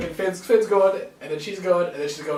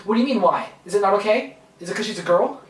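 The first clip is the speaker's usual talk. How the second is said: mock defensive; 4 semitones higher, 5 dB louder, faster than usual. Voicing defensive fans.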